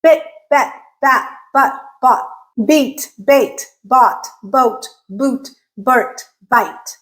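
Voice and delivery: each word said separately with a distinct vowel; crisp minimal-pair drill for learners; careful word-list demonstration. Shown as a demonstration. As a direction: enunciate one word at a time, pausing between. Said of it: "So listen to these words".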